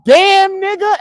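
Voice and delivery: very high, loud imitated yell; mock scream. Mocking someone who would be screaming, high mock scream. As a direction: screech it in a comic high voice. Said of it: "you gonna be screaming".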